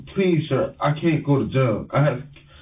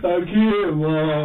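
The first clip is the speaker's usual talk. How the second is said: crying; much slower than usual. Real, not acted. Son to his mom, still crying. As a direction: choke out the words crying.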